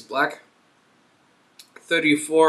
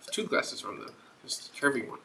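whispered aside; 8 dB quieter than usual. Real, not acted. Quiet aside about glasses.

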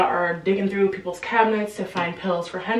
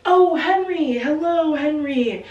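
much higher and louder, fading down; relieved father calling out to his son; overjoyed dad; 8 semitones higher, 4 dB louder, slower than usual. Retold or imitated. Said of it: "Mister Corcoran is just like".

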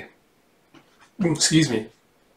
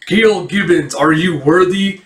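lightly voiced wizard, higher pitch; a hint of a grand wizard's challenge; old wizard; 4 semitones higher, 4 dB louder than usual. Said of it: "wise and old wizard looking man".

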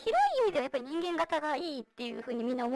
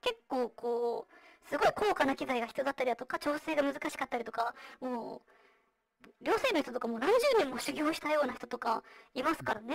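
vocoder; 2 semitones lower than usual. Real, not acted. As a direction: voice changer voice. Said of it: "今私がやってるようにボイスチェンジャー使ってる". (ボイスチェンジャーの声)

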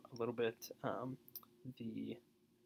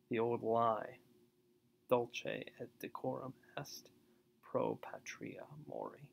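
poem reading. Acted. Reads a war poem aloud.

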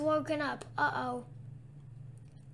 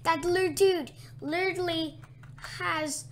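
exasperated exclaim; 4 dB louder than usual. Real, not acted. Exasperated at teammate.

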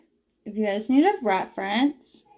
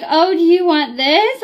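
put-on baby talk; 4 semitones higher, 4 dB louder than usual. Mom talking sweetly to toddler.

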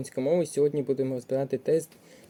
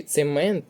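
цемент stressed on МЕНТ; stress on second syllable; 4 dB louder than usual. Shown as a demonstration. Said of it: "наголос на другий склад".

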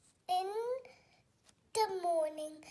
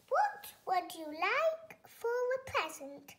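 father asking; 5 semitones higher than usual. Acted. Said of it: "he asked his daughters".

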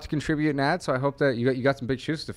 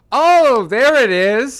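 put-on Canadian accent; 7 semitones higher, 6 dB louder, much slower than usual. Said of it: "all of a sudden it's like".

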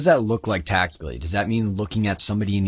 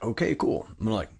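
put-on Southern accent; 3 semitones higher than usual. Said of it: "talking in a Southern accent".

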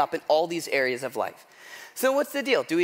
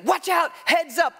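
high, mock warning shout; half-acted heads-up yell; retold yell; 9 semitones higher than usual. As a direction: call out the warning across the field. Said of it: "I hear yelling".

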